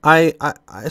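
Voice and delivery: hoarse, sick voice; raspy, worn-out voice from illness; losing voice. Real, not acted. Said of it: "I'm losing my voice because I'm sick".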